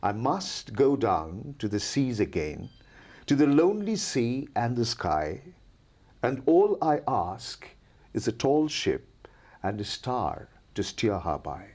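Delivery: slow, measured reading of verse; poem recitation. Acted. Teacher reciting the poem to her students, slow and measured. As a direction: let each line roll like waves.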